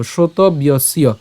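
"শ্রোতব্যস্য" slowly run together, shroto-byosyo; joined pronunciation. Shown as a demonstration. Teacher saying it all together, "শ্রোতব্যস্য" as one word. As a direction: link b straight into y in "শ্রোতব্যস্য". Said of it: "একসাথে উচ্চারণ করবো".

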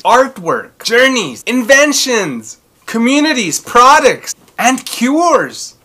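excited intro read. Acted. Host opens the show for kids, eager promo voice. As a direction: sell each word of the list like a promo.

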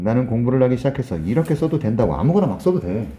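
usual speaking voice

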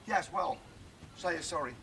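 low, quiet insistence; subdued demand. Acted. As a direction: drop right down and ask grudgingly. Grudging demand for an apology.

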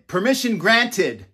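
hopeful imagined ruling; granting permission. Retold or imitated. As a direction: proclaim it like a decree. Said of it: "hopefully you'll say".

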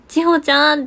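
mild mock yell to wake a sleeping friend; retold call out. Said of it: "って叫んだけど".

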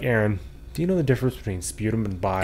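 sweet innocent question. Retold or imitated. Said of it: "you said that so sweetly".

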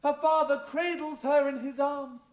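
grand camp dame voice; panto dame. Acted. Panto dame character monologue.

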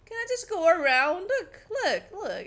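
giggly fearful begging; laughing plea. Real, not acted. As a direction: plead through nervous laughter. Scared pleading.

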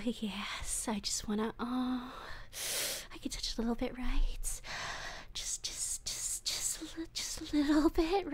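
hushed, trembling whisper; longing whisper. Acted. Captor whispers pleading longing over captive, hushed. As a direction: plead to touch just a little.

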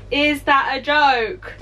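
slow, laughing repeat of the question; laughing disbelief. Real, not acted. Finding her candle spot ridiculous, slow laughing disbelief.

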